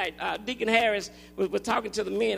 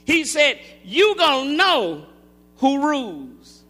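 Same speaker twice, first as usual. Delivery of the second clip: slow, weighty sermon phrases; measured preacher's proclamation; preaching; 4 dB louder, slower than usual. Acted. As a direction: preach it slowly, drawing out key words. Preaches at full force.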